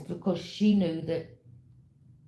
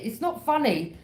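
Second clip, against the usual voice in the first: still laughing; 7 semitones higher, 3 dB louder than usual. Real, not acted. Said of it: "And I'm laughing".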